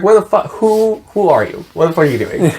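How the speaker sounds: high startled questions; baffled. Retold or imitated. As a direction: freak out at a stranger. Frodo baffled by Tom.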